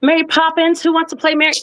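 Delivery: high, sing-song teacher voice; Miss Penny. Retold or imitated. Imitating a fifth-grade teacher announcing roles, pitched high. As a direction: impersonate the teacher picking a class play, high. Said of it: "Miss Penny said".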